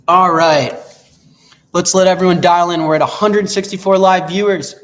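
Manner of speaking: loud hype host voice; announcer voice. Acted. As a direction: announce it to the crowd.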